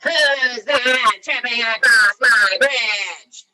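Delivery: slow, loud troll bellow; big storybook troll roar; troll's roar. A narrator's reading. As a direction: roar it out, drawing every word long. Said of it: "the troll roared from below".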